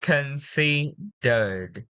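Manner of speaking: very slow CONSIDERED, softly released D; soft final D. Shown as a demonstration. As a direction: draw out Considered and finish on a gentle D. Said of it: "pronounced very, very smoothly. Softly".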